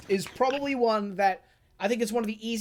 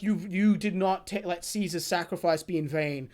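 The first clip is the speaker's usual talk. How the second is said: low, earnest tribute; Joseph respectful; 3 semitones lower than usual. Retold or imitated. Retelling Joseph honoring Wamu, low and earnest. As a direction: honor the enemy solemnly. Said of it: "is like".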